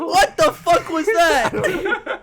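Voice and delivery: loud, high, drawn-out laughing outburst; laughing disbelief. Real, not acted. Host reacting to a terrible accent, laughing incredulously. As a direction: cry out in amused disbelief.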